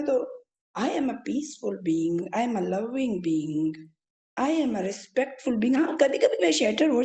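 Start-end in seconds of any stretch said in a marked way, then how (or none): 0.8-5.8 very slow, lower affirmations; calm spoken mantra, slowed right down. Shown as a demonstration. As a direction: draw out each I am like a mantra. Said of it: "मैंने वो जो visualise करना शुरू किया था ना".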